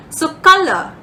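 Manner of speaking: color said as a stress example; word presented for its stress; stress demo. Shown as a demonstration. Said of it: "two ways of, uh, stressing".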